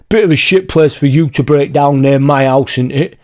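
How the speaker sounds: imitating a smug bloke's jibe; snide neighbour. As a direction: make it a passive-aggressive dig. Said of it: "He said it like".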